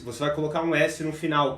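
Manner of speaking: normal talking voice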